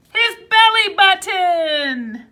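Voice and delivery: excited reveal. Acted. Teacher reveals the belly button to the kids, excited. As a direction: land the surprise with delight.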